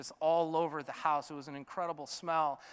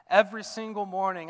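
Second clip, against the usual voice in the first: louder, pressing the refrain forward; building refrain; 4 dB louder than usual. Acted. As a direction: lift the refrain with growing force. Refrain rising in force.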